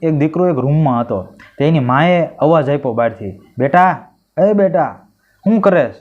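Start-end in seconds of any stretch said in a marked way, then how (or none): 3.6-5.9 higher motherly call through the door. Acted. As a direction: call your son from the next room. Mother calls son from outside.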